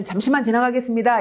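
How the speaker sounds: fast, curt way of saying 잠시만 지나가겠습니다; curt request. Shown as a demonstration. Lecturer showing the blunt way to ask someone to move, curt and fast. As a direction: rush past without softening. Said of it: "이렇게 하기보다는".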